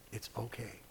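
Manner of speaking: almost breathe it to yourself; near whisper. Retold or imitated. Preacher soothing himself inwardly, nearly whispering. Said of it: "I honestly try in my mind to go".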